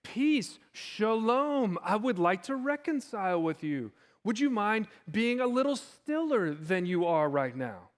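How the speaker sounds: mock-timid, over-polite request; kindly and timid. Preacher parodying a timid Jesus addressing the storm, kindly and meek. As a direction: ask meekly and ever so courteously. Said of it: "sort of kindly and timidly say".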